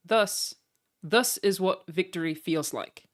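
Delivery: speech line in a put-on Kiwi accent; New Zealand accent. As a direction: quote it slowly in a mock New Zealand accent. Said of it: "Like he just said".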